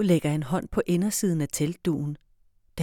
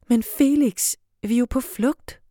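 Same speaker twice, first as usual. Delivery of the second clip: firm and higher, louder, putting her foot down; firmest voice; 6 semitones higher, 5 dB louder than usual. Acted. Liv overruling hungry Felix, firm and loud. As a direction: Liv trying to sound as firm as she can. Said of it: "med sin mest bestemte stemme".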